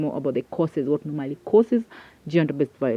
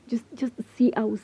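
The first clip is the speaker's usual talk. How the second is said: whisper; 6 semitones higher than usual. Real, not acted. Emotional plea to viewers.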